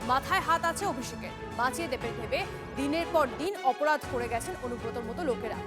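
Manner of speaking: punchy scripted headline read; news headline voice-over. A narrator's reading. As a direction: announce the headlines with dramatic lift.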